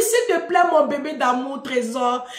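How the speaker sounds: gentle asking. Shown as a demonstration. Daughter showing father how to ask, gently. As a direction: sweet-talk demonstration. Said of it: "faut faire doucement, doucement".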